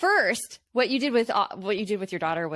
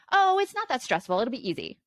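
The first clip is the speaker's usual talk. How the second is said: higher, breezy dismissal of the worry; dismissive brush-off; 4 semitones higher than usual. Shown as a demonstration. Parent showing what not to say to son, breezy brush-off. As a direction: wave it away lightly. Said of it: "I'm not telling him".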